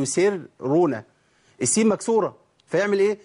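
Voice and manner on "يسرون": "يسرون" with the first ra thinned after the kasra; common wrong reading. Shown as a demonstration. Teacher imitates many people's error, thin first ra. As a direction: split "يسرون" as light "ser" then "runa". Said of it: "كتير من الناس بيقول".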